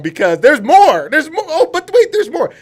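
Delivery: high-pitched, laughing hype; excited hype. Real, not acted. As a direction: pitch leaping up as the laughter breaks in. Host hypes up staying longer.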